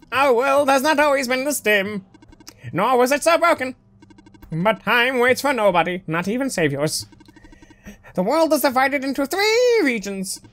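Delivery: lightly voiced robot telling the world's history; robot prophet. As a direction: explain it formally, a hint of solemn robot.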